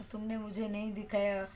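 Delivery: tearful complaint. A narrator's reading. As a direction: read it like a hurt little sister on the verge of tears. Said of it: "Shyama आंखें में आंसू भरकर कहा".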